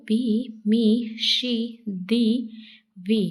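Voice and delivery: बी, मी, शी with a long 'ee'; long 'ee' demo. Shown as a demonstration. Teacher noting exceptions for E, long 'ee' in बी and मी. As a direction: draw out the 'ee' in each of बी, मी, शी, दी, वी. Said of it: "देखिए note, परंतु".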